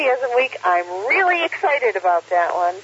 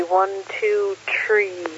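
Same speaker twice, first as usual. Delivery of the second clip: imitated southern accent; much slower than usual. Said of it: "she had this kind of southern accent".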